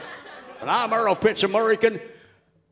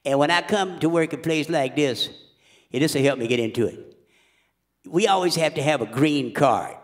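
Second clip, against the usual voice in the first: Louisiana voice. Acted. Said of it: "I'm doing the voice of anybody from Louisiana".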